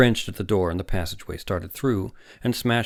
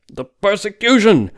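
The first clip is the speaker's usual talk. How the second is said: much higher, louder, slow and emphatic; insistent exclamation; 13 semitones higher, 11 dB louder than usual. Acted. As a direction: hammer the point home. Webber repeats it, insisting.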